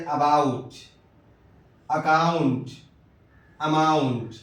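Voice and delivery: about said slowly, its first a a short weak uh; vowel demo. Shown as a demonstration. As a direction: stretch about, then اکاؤنٹ and اماؤنٹ with a light uh start. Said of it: "اے سے زبر کی بھی آواز آتی ہے".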